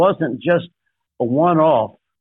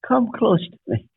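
higher, gentle call to come close; tender invitation; 7 semitones higher than usual. Retold or imitated. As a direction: coax the brothers in tenderly. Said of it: "And Joseph says".

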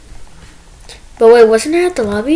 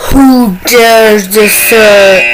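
ancient rasping undead king; much slower than usual. Pretend. Repeating game boss line.

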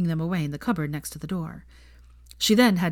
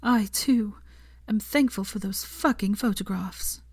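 higher, breath-led slow confession; confiding whisper; 4 semitones higher, slower than usual. A narrator's reading. Hermione telling Draco a secret, confiding half whisper. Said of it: "she whispered".

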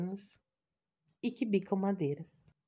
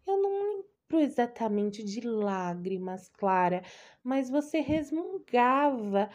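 doting aunt; 3 semitones higher than usual. Acted. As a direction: gush over her like an anxious old aunt. Aunt voice again.

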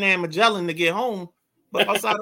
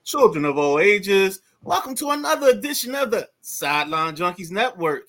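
ringmaster; 7 dB louder than usual. Pretend. Ringmaster show opening.

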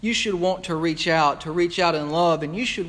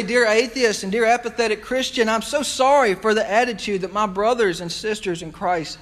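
louder, higher, urgent appeal; raised pleading apology; 5 semitones higher, 3 dB louder than usual. Pretend. Preacher addressing an imagined atheist, loud and pleading. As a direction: call out the apology with conviction. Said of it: "I would say".

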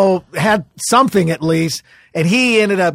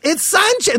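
heckle; 10 semitones higher than usual. Retold or imitated. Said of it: "the women would yelled it out".

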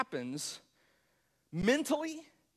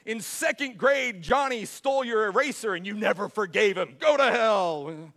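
booming, much louder mock verdict from an angry God; judgmental God; 9 dB louder than usual. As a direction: yell the sentence like a furious judge at heaven's gate. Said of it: "God the Father is some sort of judgmental".

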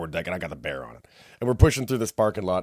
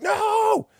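high, drawn-out mock wail; loud, high hammed-up "no"; retold cry of dismay; 5 dB louder than usual. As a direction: cry out as the prize rolls away. Retold cry as bear rolls away.

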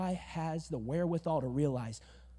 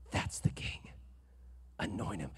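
quiet, breathy voice of God to the prophet; low whispered divine command; hushed voice of God; 9 semitones lower, 7 dB quieter than usual. Retold or imitated. God speaking softly to the prophet, hushed.

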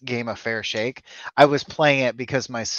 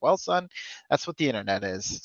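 put-on folksy old sitcom dad; 9 dB quieter than usual. Dad answer voiced in story.

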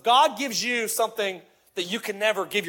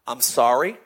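sincere apology; 5 semitones lower than usual. Retold or imitated. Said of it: "I just said".

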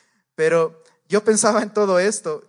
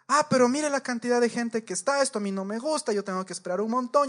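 higher-pitched huffy griping; mock indignant complaint; 6 semitones higher than usual. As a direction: grumble about the long queue, half-acted. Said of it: "súper mala actitud de la señora". (queja indignada, imitada y aguda)

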